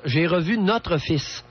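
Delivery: each word spelled out slowly; slowly, as a phrase to repeat; slow, deliberate model phrasing. Shown as a demonstration. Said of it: "vous habituer à dire". (lentement, phrase modèle)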